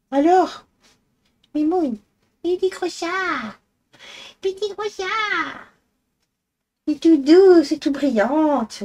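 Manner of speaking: squeaky cooing for a chubby cat; silly pet voice. Real, not acted. Woman cooing at her fat purring cat in silly baby talk. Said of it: "des voix débiles quand on parle à nos animaux".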